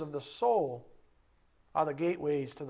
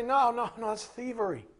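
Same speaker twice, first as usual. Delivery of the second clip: scolding correction; 4 semitones higher than usual. Retold or imitated. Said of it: "I'm gonna say".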